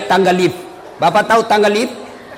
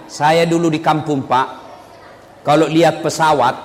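ordinary talk

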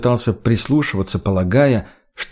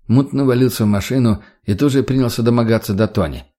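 plain reading voice

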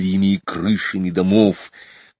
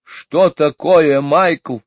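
high, slow irritated question; snapping at the boy; high cross mother; 8 semitones higher, 7 dB louder, much slower than usual. A narrator's reading. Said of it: "рассердилась миссис Банкс".

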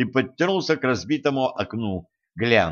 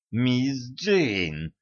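soft, strained, through clenched teeth; 4 dB quieter than usual. Acted. Boy pinned under her elbow, gritted-teeth strain. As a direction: squeeze her name out in pain. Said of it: "процедил тот".

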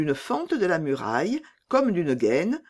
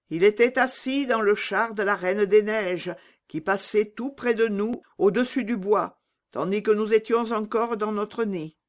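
higher-pitched bird telling what it saw; lightly raised voice for a talking pigeon; solemn pigeon storyteller; 5 semitones higher than usual. Acted. Pigeon telling Gerda of the Snow Queen, raised and earnest.

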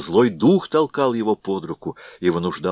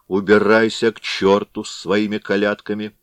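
angry shout; 2 semitones higher, 3 dB louder than usual. Acted. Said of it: "сердито закричал Вакула".

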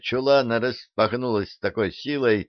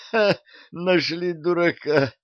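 groaning; 8 semitones higher than usual. Acted. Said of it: "простонал Арчи".

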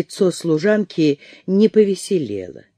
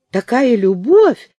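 louder, higher, slow rapturous sigh; 6 semitones higher, 5 dB louder, slower than usual. A narrator's reading. Maid gushing over her lady's love, rapturous. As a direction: gush over the romance. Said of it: "восторженно воскликнула она".

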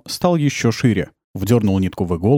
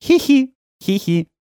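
put-on child giggle; slower than usual. Children giggling behind door.

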